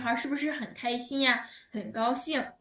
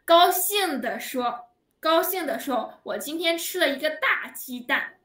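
teacher playing her happy little brother, a touch louder; happy demo; 3 semitones higher, 3 dB louder than usual. Shown as a demonstration. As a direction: cheerfully act out the delighted little brother.

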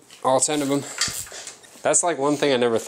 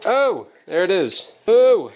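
surprised exclaim; 9 semitones higher, 6 dB louder, slower than usual. Real, not acted. Part comes loose suddenly.

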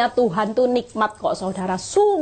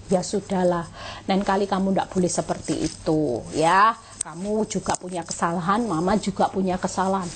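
speaking kindly; 4 semitones lower than usual. Retold or imitated. Mother calmly correcting her child after the anger passes, gentle. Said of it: "saya mulai ngomong baik-baik".

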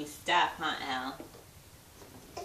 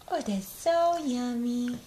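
slow excited praise; 4 semitones higher, 3 dB louder than usual. Shown as a demonstration. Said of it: "praising baby's food".

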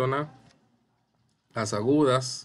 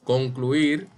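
"Concluir" with a raised, punched "ir"; stress on final syllable; 4 dB louder than usual. Shown as a demonstration. Teacher giving another aguda example, stressing the end of "Concluir". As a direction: land hard on the last syllable of "Concluir". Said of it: "de igual forma".

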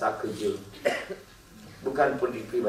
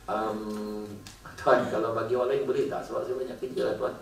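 reluctant employee; 3 semitones lower, 6 dB quieter than usual. Acted. Employee reluctantly refuses boss.

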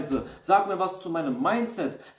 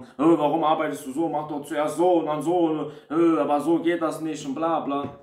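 louder, fast, impatient scolding; harsh bossy tone; 3 dB louder than usual. Retold or imitated. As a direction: snap at them like a control freak. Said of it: "Der Ton macht die Musik".

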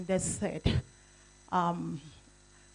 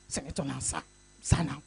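coaxing lower plea; pleading; 5 semitones lower than usual. Retold or imitated. President coaxing the senator for more, lower and pleading. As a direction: gently coax him for more. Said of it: "I say".

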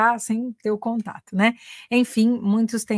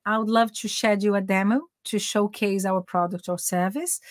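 slow model phrase. Shown as a demonstration. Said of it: "aqui alguns exemplos".

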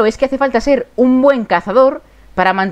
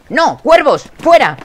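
shooing shout; 4 semitones higher, 4 dB louder, slower than usual. Real, not acted. Chasing crows off food.

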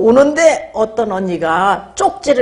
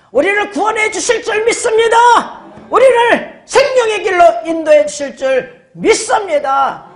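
higher and higher, shouting the amen line; preaching at full force; 5 semitones higher than usual. Real, not acted. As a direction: build each declaration to a shout. Building faith declarations.

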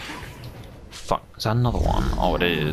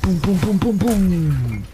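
loud, high booming chant; loud gung-ho soldier; 12 semitones higher, 5 dB louder, slower than usual. Acted. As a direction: bellow each boom with glee. Gleeful smashing in game.

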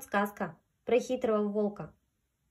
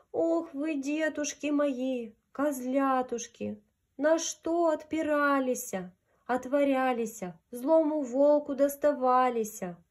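lamenting; 3 semitones higher than usual. Acted. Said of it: "горько заплакала и запричитала".

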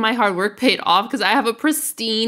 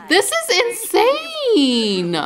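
laughing in disbelief; 10 semitones higher, slower than usual. Real, not acted. Reacting to mom's death.

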